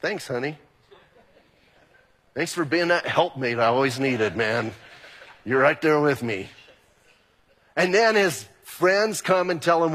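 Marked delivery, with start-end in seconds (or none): 0.0-6.5 sarcastic thanks. Retold or imitated. Job sarcastically answers his wife.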